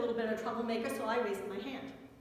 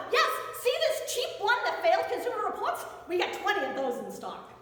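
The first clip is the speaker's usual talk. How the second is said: sarcastic cheer; 5 semitones higher than usual. Retold or imitated. Clerk offers failed cheap seat.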